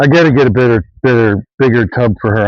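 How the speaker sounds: breathless and panting; words squeezed out between breaths. Real, not acted. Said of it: "I'm out of breath".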